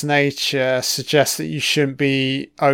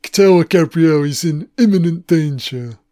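put-on straining possessed boy; 2 semitones higher, 5 dB louder than usual. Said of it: "He can barely fucking speak".

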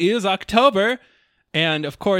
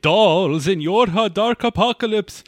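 spooky voice; 3 semitones higher than usual. Acted. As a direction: drag it out like a ghost host. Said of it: "we do it in a spooky voice".

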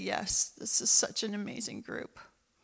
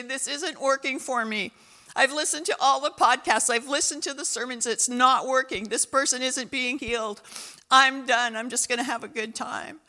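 hardened complaint; 7 dB louder than usual. Retold or imitated. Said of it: "churches is gonna harden their hearts and say".

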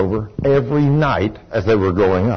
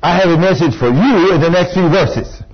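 higher, commanding voice of God; preacher voicing an authoritative God; 4 semitones higher than usual. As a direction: imitate God calling for attention. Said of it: "you hear this authoritative voice say".

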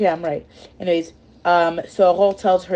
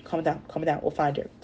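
self-soothing; 8 dB quieter than usual. Retold or imitated. Henry telling himself to calm down, softly. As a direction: quietly talk yourself down. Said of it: "telling himself".

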